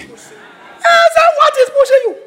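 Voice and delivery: high laughing surprise; shocked question. Retold or imitated. Preacher retelling his astonished question to the woman.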